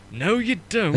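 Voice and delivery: sudden sharp high loud snap of refusal; stern rebuke. Retold or imitated. Reserved person snaps at being called the wrong name, sharp and loud. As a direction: bite back hard, polite mask gone. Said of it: "this really normally very reserved and polite person just went".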